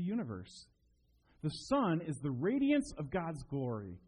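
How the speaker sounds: slow, weighty reading of scripture. Acted. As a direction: read it slowly, every phrase carrying weight. Reads Hebrews scripture.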